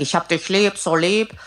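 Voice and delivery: strained, pressed voice demo; pressed throat demo, in the style of a singer. Shown as a demonstration. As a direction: squeeze the words out through a tight throat. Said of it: "dann klingt das nicht nach dem Inhalt".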